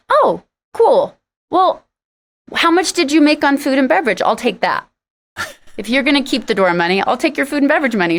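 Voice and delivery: fake-cheerful, then turn the knife; sarcastic. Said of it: "I'm sarcastic".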